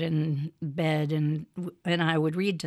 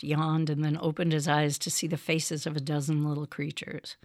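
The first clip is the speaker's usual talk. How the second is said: story narration. Acted. Mother reads storybook aloud.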